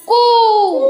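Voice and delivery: high, loud squeal of a hurt monkey; monkey shriek. Shown as a demonstration. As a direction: shriek like a monkey whose tail got stepped on. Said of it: "तो कसा ओरडला माहिती का माकड?".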